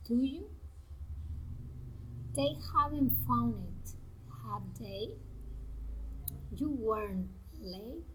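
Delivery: statement falls, then the short tag such as "do you" lifts; deliberate statement, then questioning tag on "do you"; tag-question intonation. Shown as a demonstration. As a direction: set off "do you", "have they", "were you", "should I" after a pause. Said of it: "falling or rising intonations".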